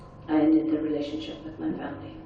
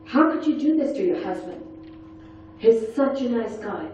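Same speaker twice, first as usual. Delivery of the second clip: higher-pitched mock reproach; a touch of nurse's scolding; 4 semitones higher than usual. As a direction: shame her on the husband's behalf. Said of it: "She goes".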